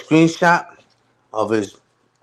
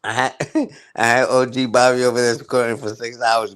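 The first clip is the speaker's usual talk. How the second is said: laughing while teasing. Real, not acted. Bragging to chat about O G, laughing through it. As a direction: laugh breaking into the brag.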